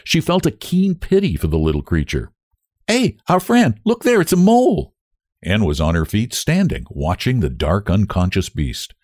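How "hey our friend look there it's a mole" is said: high, excited exclamation; excited call. A narrator's reading. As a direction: call it out to point something out. Spots the mole, calls out.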